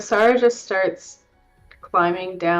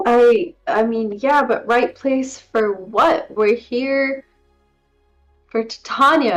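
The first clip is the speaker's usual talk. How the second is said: distressed protest; 3 semitones higher than usual. Acted. Distressed at finding village gone.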